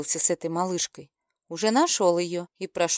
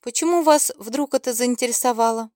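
usual speaking voice

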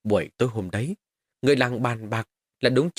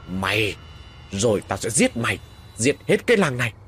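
eerie voice. Acted. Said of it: "một giọng nói rất là ghê rợn".

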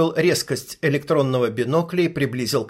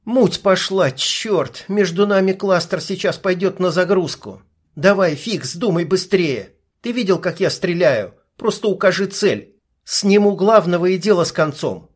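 higher, lightly voiced young woman; female sniper voice; 4 semitones higher than usual. Sniper briefing her partner through binoculars, young woman's voice. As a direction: narrator gives the sniper her own voice.

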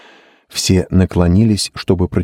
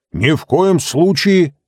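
much higher, slow, emphatic refusal; exclaiming; 12 semitones higher, 3 dB louder, slower than usual. A narrator's reading. Timolty refuses to burn the painting, a high exclamation. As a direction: cry out that it must never burn. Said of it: "воскликнул Тимолти".

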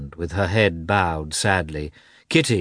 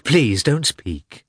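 slow, drawn-out plea; a mild hurt plea, stretched out; slow pleading; 5 semitones higher, much slower than usual. Acted. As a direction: beg her to stop, slowly. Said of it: "with a shaking voice".

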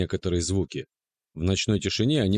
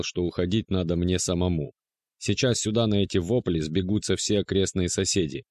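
usual speaking voice

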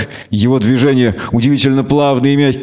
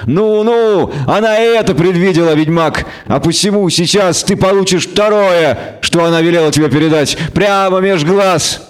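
raised, mocking villain's taunt; nasty sinister gloating; 4 semitones higher than usual. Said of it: "мерзко, зловеще рассмеялся".

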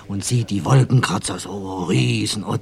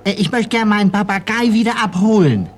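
much higher polite request; neighbour's request; 12 semitones higher, 4 dB louder than usual. Retold or imitated. Frau Hansen asking the caretaker for the parrot, high pitched. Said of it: "sagen Sie, Frau Huber".

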